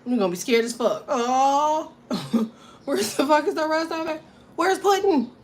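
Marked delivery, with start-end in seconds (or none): 1.1-5.3 high, loud panicked cry for the lost pet; panicked owner. Acted. Cat owner discovering her pet is gone, panicked and shrill. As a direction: shriek looking for Puddin'.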